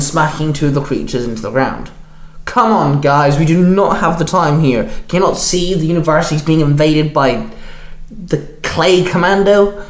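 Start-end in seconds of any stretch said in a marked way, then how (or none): 2.4-9.8 barked. Acted. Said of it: "Spider-Man barked".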